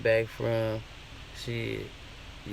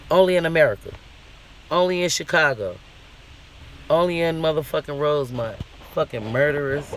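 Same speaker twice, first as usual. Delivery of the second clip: angry rant; 4 semitones higher, 5 dB louder than usual. Real, not acted. Angry rant about the case.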